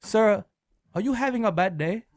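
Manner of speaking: lightly put-on Asian accent; mock Asian accent, politely needling. Fake car wash owner needling the customer, mock Asian accent. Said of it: "There's no Asian guy that owns".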